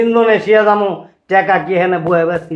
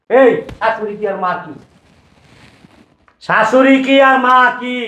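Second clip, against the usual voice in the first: father-in-law angrily lecturing his son-in-law; angry scolding; 6 semitones higher than usual. Acted.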